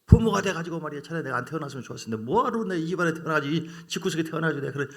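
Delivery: put-on fast, loud resentful child's complaint; whining complaint. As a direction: rattle off a bitter grievance.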